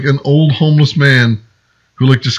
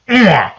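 imitated grunt; 6 semitones higher than usual. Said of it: "he just erupted this noise".

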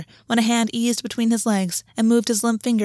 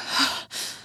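gasp; 6 dB quieter than usual. A narrator's reading. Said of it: "August gasped".

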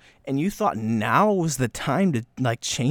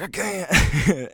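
mock panic; 6 semitones higher, 4 dB louder than usual. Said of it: "I'm like".

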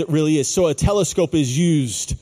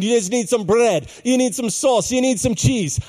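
put-on terrible Italian accent; 4 semitones higher than usual. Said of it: "I got a terrible Italian accent".

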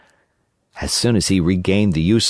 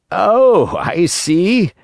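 startled realization; 7 semitones higher, much slower than usual. Acted. Carpenter startled, then realizing.

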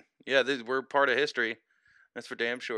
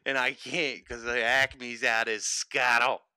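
put-on Philly accent. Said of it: "your worst Philly accent".

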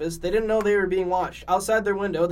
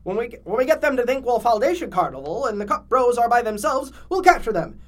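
scheming villain voice; 5 semitones higher, 4 dB louder than usual. Acted.

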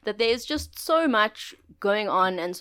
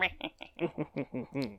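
evil snicker; 8 semitones lower, 12 dB quieter than usual. Pretend. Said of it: "let's hear Evil Calvin".

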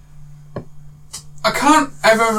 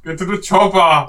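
Arnold impression; slower than usual. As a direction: stretch the line out in a clumsy Arnie. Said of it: "the worst impression in the world".

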